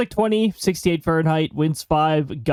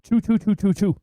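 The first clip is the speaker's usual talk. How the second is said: choo choo like a toy train; playful train sound effect; chugging toy train voice; 4 semitones higher than usual. Shown as a demonstration. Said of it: "Wait, it has to be on a separate line".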